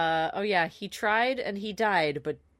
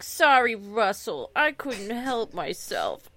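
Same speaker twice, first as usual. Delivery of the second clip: put-on weird baby voice; 4 dB louder, slower than usual. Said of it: "does a weird baby voice".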